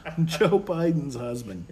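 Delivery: amused mock quote. Repeats gaffe, laughing.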